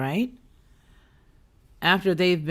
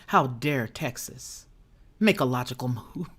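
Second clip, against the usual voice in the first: sarcastic mock outrage; 4 semitones lower than usual.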